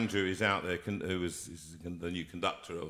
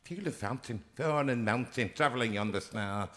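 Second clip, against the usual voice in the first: put-on northern accent; 2 semitones higher than usual. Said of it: "you're from right up north".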